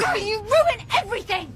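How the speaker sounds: furious accusation. Real, not acted. Daughter furious at father.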